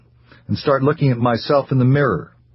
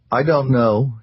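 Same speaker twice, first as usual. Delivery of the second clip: abject; 2 semitones higher, slower than usual. Acted. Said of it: "he replied abjectly".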